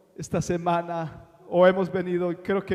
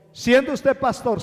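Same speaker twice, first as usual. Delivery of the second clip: higher and louder, a mock shocked listener; incredulous question; 7 semitones higher, 6 dB louder than usual. Pastor voices a doubting listener who is shocked, with mock surprise. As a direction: toss it up like a doubter cutting in.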